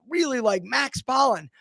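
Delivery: ordinary talk, nothing marked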